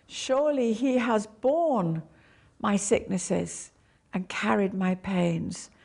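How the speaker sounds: borne stressed then a pause. Shown as a demonstration. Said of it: "emphasize one word at a time".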